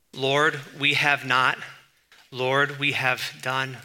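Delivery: slow, measured mock prayer; imitated prayer. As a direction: pray it out slowly, pausing after the address. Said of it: "Don't we pray like this?".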